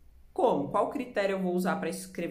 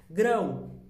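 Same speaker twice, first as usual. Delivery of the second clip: "Grão" in one firm, louder beat; one single sound; 5 dB louder than usual. Shown as a demonstration. Teacher proves there is only one sound, "Grão" punched once. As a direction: say "Grão" as a single emphatic syllable. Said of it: "Apenas um som".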